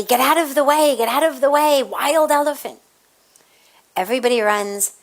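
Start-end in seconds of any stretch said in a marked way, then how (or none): 0.0-2.8 half-raised warning yell, a little higher; imitating the handler's warning cry, lightly; mild mock yell. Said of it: "he's yelling at everybody".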